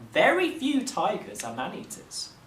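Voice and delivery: a royal father calming his frightened people; the Raj. A narrator's reading.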